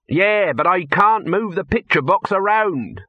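complaining handleman. Acted. Handleman objects to how the trolls moved, complaining.

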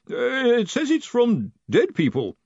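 high, far-off timid voice; nervous voice from far away; timid distant voice. A narrator's reading. Collarbone voice.

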